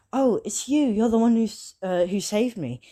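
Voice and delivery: light up on spotting your rescuer; excited recognition. Acted. Ochako seeing the one who saved her, excited.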